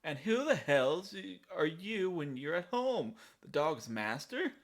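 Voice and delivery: lightly voiced sneering boss; arrogant thug. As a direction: order the goons. Voicing thug NPC.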